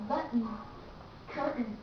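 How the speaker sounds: "button, curtain" with each T cut off before N; glottal stop T. Shown as a demonstration. Teacher gives examples of the first rule, glottal T. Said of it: "you pronounce like collateral stop".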